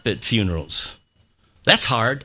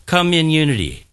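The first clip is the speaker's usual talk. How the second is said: "Come in unity" slightly quicker; a little faster; 3 dB louder than usual. Shown as a demonstration. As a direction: run COME IN UNITY a bit closer together. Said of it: "Now say it a little faster".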